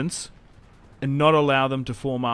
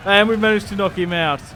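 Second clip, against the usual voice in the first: louder, higher triumphant call; thrilled, raised voice; excited cheer; 6 semitones higher, 7 dB louder than usual. Real, not acted. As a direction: crow over the win. Cheering a knocked-out general.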